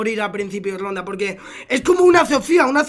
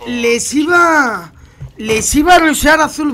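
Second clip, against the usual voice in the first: frustrated shout; 3 semitones higher, 6 dB louder, slower than usual. Real, not acted. Frustrated streamer explaining failed rush.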